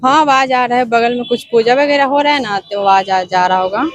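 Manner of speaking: put-on man putting on a girl's voice on a call. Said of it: "लड़की की आवाज में बात करेंगे".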